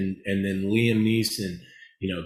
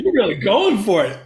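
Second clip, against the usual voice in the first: imitated amazement; 11 semitones higher, 8 dB louder than usual. Retelling teacher's reaction, amused.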